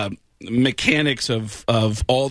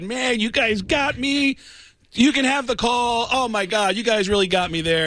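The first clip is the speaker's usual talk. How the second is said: laughing good sport; 7 semitones higher than usual. Retold or imitated. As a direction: play the good sport who got pranked. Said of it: "He said".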